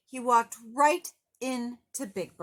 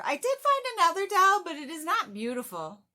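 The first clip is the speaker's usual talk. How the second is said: quick, higher grumpy offer; brisk grouch; 9 semitones higher, 5 dB louder, faster than usual. Acted. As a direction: rush it out like a reluctant grouch. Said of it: "said Oscar".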